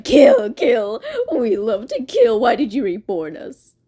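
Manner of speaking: eerie chant of kill, kill; bloodthirsty Blood Moon. Retold or imitated. Blood Moon questions his maker, in an eerie creature voice. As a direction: murmur it like a monster. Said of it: "Blood Moon is just like".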